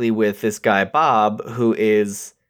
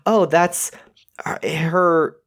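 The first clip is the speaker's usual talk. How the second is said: whispering; 5 semitones higher, slower than usual. Retold or imitated. Retold sudden realisation, whispered.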